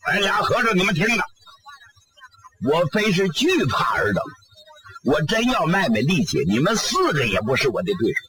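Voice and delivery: lightly voiced demon bluffing, then dismissing the monks; demon king's voice. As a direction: demon king talking down to two monks.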